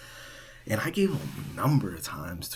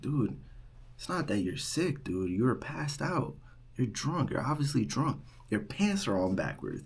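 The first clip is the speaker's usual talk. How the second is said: exasperated retort; 5 semitones higher than usual. Retold or imitated. Retold RA arguing with drunk student.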